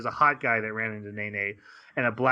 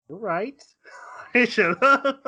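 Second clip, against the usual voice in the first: breathy whisper, higher, through a laugh; whispered aside; 10 semitones higher, 5 dB louder than usual. Real, not acted. Agreeing with the heroine while laughing with cohosts, whispered. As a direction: confide it with a giggle.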